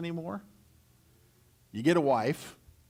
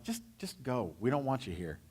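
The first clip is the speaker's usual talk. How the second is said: nervous hush; 2 semitones lower, 7 dB quieter than usual. Retold or imitated. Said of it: "And they're like".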